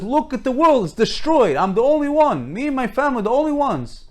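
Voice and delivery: imitating an upset, aggrieved plea; retold tearful protest. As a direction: act out a distraught survivor pleading his case. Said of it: "Why are you crying?".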